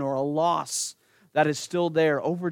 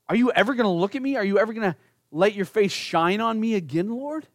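fast, higher anxious plea to God; desperate prayer, pitch raised; pleading David; 4 semitones higher, faster than usual. Acted. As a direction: beg to be seen again. David pleading, voiced by preacher.

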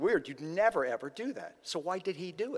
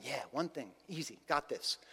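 overconfident; 3 semitones lower, 6 dB quieter than usual. Retold or imitated. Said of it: "I'm sure the young man's going".

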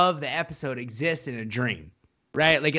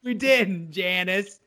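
raised, higher exasperated scolding; acted exasperation; 4 semitones higher than usual. Tony sending his sister to Seattle, mock exasperated scolding. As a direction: tell her off, acting fed up.

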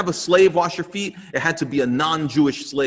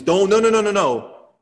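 higher and louder burst of no, no, no; blurted protest; 6 semitones higher, 5 dB louder than usual. Retold or imitated. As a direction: blurt it out in an awkward panic. Peter blurts out refusal.

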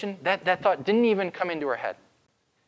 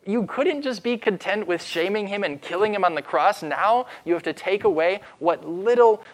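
higher-pitched, incredulous outburst; mourning in rage; 4 semitones higher than usual. Acted. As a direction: protest in outraged grief, building from a disbelieving "really?". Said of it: "She was mad because something".

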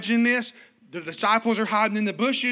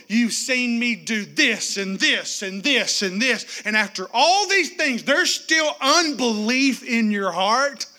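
slow, then louder incredulous challenge; building rebuke; 2 semitones higher, 5 dB louder, slower than usual. Acted. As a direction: climb from measured to pleading force. Preacher voicing Jesus rebuke.

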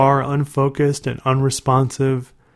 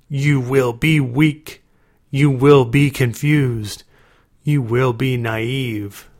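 growled warning; slower than usual. Acted. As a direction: growl out a curse slowly. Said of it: "In a growling voice".

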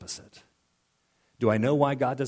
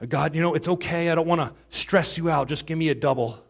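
mock casual prayer; 5 semitones higher, 4 dB louder than usual. Mock prayer asking for little.

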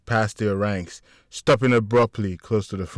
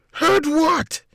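high, sharp suspicious question; 5 dB louder than usual. A narrator's reading. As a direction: narrow your eyes and ask. Mikael suspicious, narrowing eyes.

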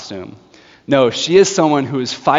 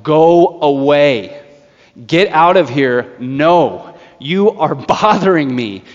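louder, slow, exasperated judge shouting back; annoyed yell; 4 dB louder, slower than usual. Retold or imitated. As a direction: bark him off through the wall. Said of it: "and yells".

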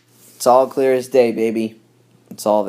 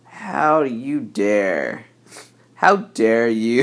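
angry stranger; much slower than usual. Retold or imitated. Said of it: "and he's like".

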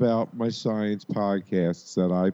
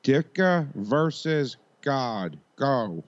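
slow, higher mock Chicago accent; pretend Chicago accent; 5 semitones higher, much slower than usual. Setting up the sketch matchup, pretend Chicago accent. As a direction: pose it like a Chicago superfan. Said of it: "with pretend Chicago accents".

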